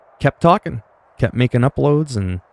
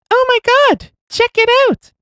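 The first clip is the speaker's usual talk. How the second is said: exaggerated annoying falsetto squeal; high-pitched squeaky voice; 4 dB louder than usual. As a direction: squeak it way up high, mocking your own voice. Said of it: "my voice sounds really high-pitched and squeaky and annoying".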